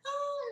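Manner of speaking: high, drawn-out mock giggle; imitated child's laughing cry. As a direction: imitate a little girl bursting with amusement. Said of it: "começou a rir". (risada infantil imitada, bem aguda)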